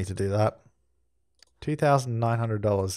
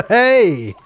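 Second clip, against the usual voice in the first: laughing hey; 8 semitones higher, 8 dB louder than usual. Real, not acted. Laughing exclamation.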